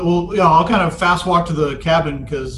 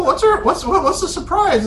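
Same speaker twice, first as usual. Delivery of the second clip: laughing. Acted. Laughing confusion.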